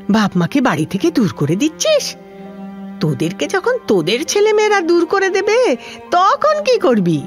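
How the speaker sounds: rising, high-pitched indignant rebuke; indignant scolding. Acted. Old patient berates children who abandon their parents, indignant. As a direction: scold with climbing pitch and mounting outrage.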